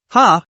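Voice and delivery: sharp surprised ha; a startled, puzzled ha; puzzled huh. Acted. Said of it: "made a puzzled sound".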